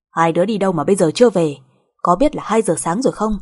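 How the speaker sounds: stern, pointed questioning; scolding. Acted. Mother scolding son for being out at two, stern. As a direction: demand an explanation for the late hour.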